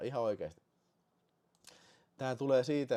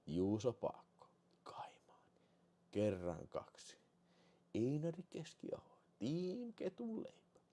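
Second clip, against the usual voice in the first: whispering names; 9 dB quieter than usual. Real, not acted.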